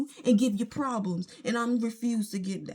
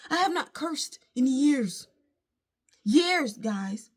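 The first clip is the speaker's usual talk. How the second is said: voice breaking; slower than usual. Real, not acted. Emotional, voice breaking.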